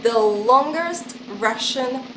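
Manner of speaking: loud drum-roll build-up; dramatic announcement. Pretend. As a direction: announce it like the grand finale. Announcing the final word with drum roll.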